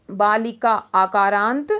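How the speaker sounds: बालिका said slowly with a long final आ. Shown as a demonstration. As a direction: draw out the आ at the end of बालिका. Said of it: "कै के बाद क्या है, आ की मात्रा". (बालिका का लंबा आ)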